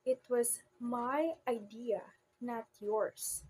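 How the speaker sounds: MY stressed against YOURS; emphasis contrasting my with yours; contrastive stress. Shown as a demonstration. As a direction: lean on my, then set off yours. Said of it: "So let's have an example".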